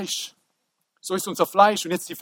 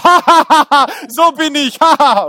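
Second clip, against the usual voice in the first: laughing; 4 semitones higher, 7 dB louder than usual. Real, not acted. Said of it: "laughing at himself".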